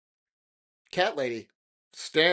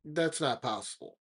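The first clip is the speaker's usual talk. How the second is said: quiet, calm and matter-of-fact; 10 dB quieter than usual. Retold or imitated. Sister calmly denying to the neighbour, quiet calm. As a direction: state it coolly, no fuss. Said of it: "the lady calmly looks at me and says".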